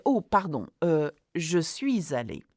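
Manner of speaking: "Oh, pardon, euh, je suis allé" with a quick, unbothered fix; confident self-correction. Shown as a demonstration. Teacher models correcting a mistake in the exam, calm and confident. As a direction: own the slip and fix it calmly. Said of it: "correct yourself and say".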